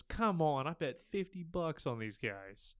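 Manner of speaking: a fan in a mock American accent yelling at the game. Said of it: "Trying to sound like an American".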